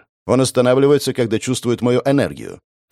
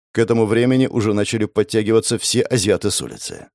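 ordinary delivery, nothing marked

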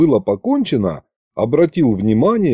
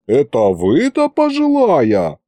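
mock indignant; 3 semitones higher than usual. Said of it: "Возмутился я".

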